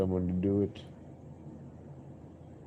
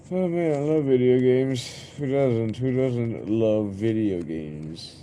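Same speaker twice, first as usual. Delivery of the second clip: loud, higher burst of excitement; excited; 4 semitones higher, 5 dB louder than usual. Real, not acted. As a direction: gush about video games out loud. Excited outburst about video games.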